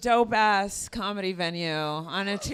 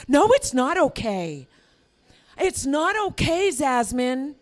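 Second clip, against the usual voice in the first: distraught white apologizer, pitched up toward the end; mock overapologetic distress; 2 semitones higher than usual. New Yorkers mispronouncing her name, mock guilty distress. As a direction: fret as if guilt-ridden over the name. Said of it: "white people feel so bad about being white".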